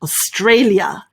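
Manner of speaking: AUSTRALIA as os-TRAY-lya, L kept; AUSTRALIA with a clear "lya" ending; alternative pronunciation. Shown as a demonstration. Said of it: "other people pronounce it as".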